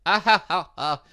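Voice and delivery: hearty character laugh. Acted. Character laughs at naive student.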